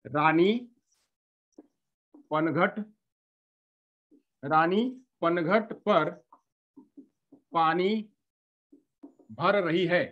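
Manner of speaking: each word read alone with long gaps; slow word-by-word reading. Shown as a demonstration. Teacher demonstrating halting reading, slowly word by word. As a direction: read it out one word at a time. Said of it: "statement लिखा हुआ है".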